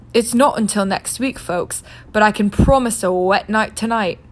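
jaunty weatherman voice; a breezy TV weatherman. Acted. Weatherman reports.

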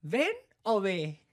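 slow, drawn-out feigned confusion; mock-innocent question to the cop; playing dumb. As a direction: stretch it like you don't get it. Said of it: "me hago pendejo".

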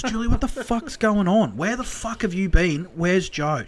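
acted frantic mother, pitched high; imitated upset confrontation; alarmed demand. Panicking mother confronts carer.

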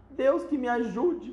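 high, slow, loud cry to heaven; hammed-up mother's yell; bellow. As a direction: wail it out in panic. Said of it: "berrou a senhora Chataclete".

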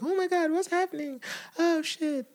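put-on high, panicked Afghan accent. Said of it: "that's your Afghan accent".

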